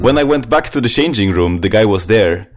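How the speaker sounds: lightly put-on Swedish accent. Reading a listener's gym story, light Swedish accent. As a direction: read with a touch of Swedish accent. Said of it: "I'm gonna stop doing the accent now".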